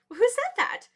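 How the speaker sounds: high, loud startled call; startled question. Acted. The animals look round for the voice, startled and loud. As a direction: call out to find the hidden speaker.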